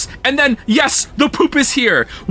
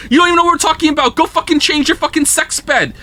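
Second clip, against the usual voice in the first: exasperated yell; 3 semitones higher, faster than usual. Real, not acted. Exasperated rant at chat.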